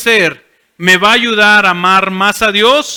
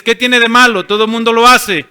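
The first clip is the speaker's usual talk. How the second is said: "¿Qué tiene de malo?" tossed out louder as an excuse; objector's excuse; 3 semitones higher, 4 dB louder than usual. Pretend. Churchgoer excusing himself to the pastor, louder. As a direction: brush it off like everyone does it. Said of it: "si me dices".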